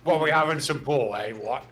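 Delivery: lightly put-on British accent, chummy; a mate inviting you for a pint in British accent. A friend jokingly inviting mates to the pool hall, in a light British accent. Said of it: "I don't have the best accent".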